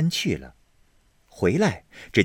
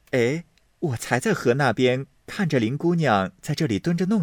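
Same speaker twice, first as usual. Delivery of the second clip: lightly voiced young lady, a touch higher; casual, a little sly; Baochai's voice; 4 semitones higher than usual. Baochai pretends to look for Lin girl, lightly higher. Baochai speaks to cover herself.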